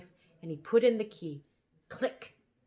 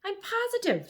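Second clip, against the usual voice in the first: king voice; 14 semitones higher, 4 dB louder than usual. Acted. The king insists on the spot.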